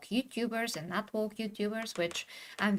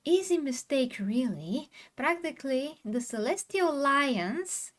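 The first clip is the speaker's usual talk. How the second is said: dripping sarcasm, mock praise; sarcastic; 5 semitones higher than usual. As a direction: read it with heavy irony. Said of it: "So this is sarcasm".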